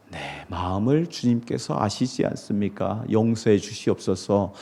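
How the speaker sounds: soft, low confession of Peter; humble plea. Retold or imitated. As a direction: ask forgiveness quietly. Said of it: "그런 고백을 한 것입니다". (베드로의 고백을 낮고 조용하게)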